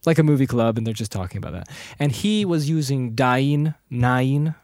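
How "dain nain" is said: "Dain, Nain" with a drawn-out two-part vowel; dwarf-name pronunciation. Shown as a demonstration. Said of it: "those are the kinds of pronunciations".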